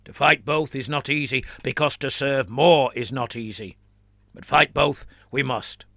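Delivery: put-on fervent flagellant in a Trantian accent; a zealot declaring in a Trantian accent; lightly voiced Trantian accent. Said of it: "declared the man in a Trantian accent".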